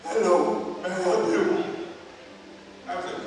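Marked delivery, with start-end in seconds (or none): 0.0-0.8 mimicked laryngitis greeting; imitated hoarse drive-thru worker; hoarse intercom voice. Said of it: "After hearing her voice". 0.8-1.6 imitated hoarse drive-thru worker; mock-hoarse customer service; hoarse intercom voice. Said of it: "After hearing her voice".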